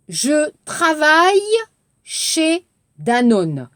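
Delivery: slow, carefully spaced model line; slow model sentence. Shown as a demonstration. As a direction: say it slowly for the class. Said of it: "Regardez l'exercice". (천천히 또박또박 읽는 시범)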